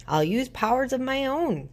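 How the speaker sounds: scowling goblin. A narrator's reading. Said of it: "scowled the goblin".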